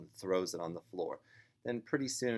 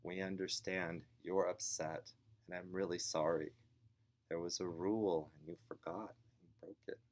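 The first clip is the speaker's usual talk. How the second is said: gentle sympathy, sinking softer to the end; kindness, compassion; 4 dB quieter than usual. Acted. Parent explaining a broken rule to child, kindly. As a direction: acknowledge the upset kindly, then trail down softly. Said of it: "responding to it with kindness".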